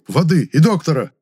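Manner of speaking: calling out for water and a doctor; shouting. A narrator's reading. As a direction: shout for help across the room. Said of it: "крикнул".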